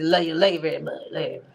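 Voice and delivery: lightly mocking his mumbled words; slurred, mumbly impression; imitated mumble. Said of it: "He, he mumbles".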